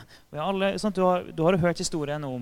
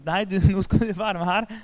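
laughing, teasing voice pulling someone along; a lightly voiced friend laughing and insisting; playful coaxing; 4 semitones higher, 5 dB louder than usual. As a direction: coax them in with a laugh. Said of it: "bare sånn".

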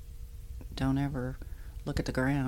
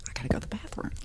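whispered; 3 dB quieter, much faster than usual. Retold or imitated. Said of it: "I'm like".

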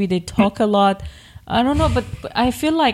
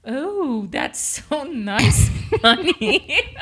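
slow, lightly higher, laughing through it; half-hearted feminine try; 3 semitones higher, much slower than usual. Shown as a demonstration. Wife practicing the girly reply, laughing at herself. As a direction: attempt the sweet line but crack up. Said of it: "It was not feminine".

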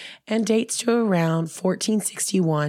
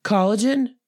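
mocking herself; 3 semitones higher, 3 dB louder than usual. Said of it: "This is like me being like".

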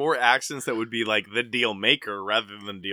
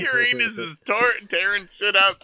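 laughing through the words, much higher and louder; 8 semitones higher, 6 dB louder than usual. Real, not acted. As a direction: repeat the line while cracking up. Laughing while repeating the joke.

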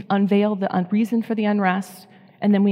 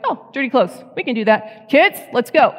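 put-on higher, brighter "Kids, let's go"; sudden cheerful energy; 4 semitones higher, 3 dB louder than usual. Freed mom calling the kids, mildly excited. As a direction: pop up with fresh energy. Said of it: "it's like".

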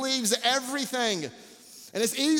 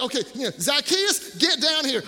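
fight announcer hype; 2 semitones higher than usual. Acted. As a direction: build it up like a boxing announcer.

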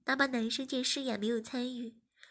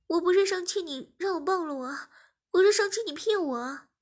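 put-on higher, loud indignant girl; angry outburst; 6 semitones higher, 8 dB louder than usual. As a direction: let her anger out. Angry girlfriend glaring at him. (气愤地大声说)

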